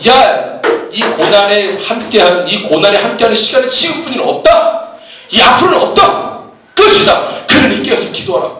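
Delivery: preacher voicing an insistent Jesus; urgent warning. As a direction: build to a high, emphatic finish.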